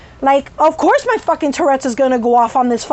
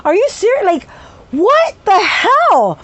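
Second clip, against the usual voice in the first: retold outrage; 7 semitones higher than usual. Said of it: "I was like".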